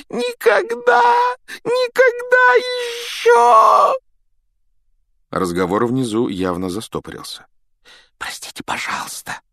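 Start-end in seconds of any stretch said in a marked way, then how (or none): 0.1-3.9 high shouted elf wail, slow on никогда. Acted. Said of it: "голосил он". 8.2-9.4 soft unvoiced whisper. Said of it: "прошептал Гарри".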